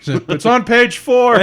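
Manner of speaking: high, slow, squeaky mock voice. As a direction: squeak it out slowly. Mocking reply voice.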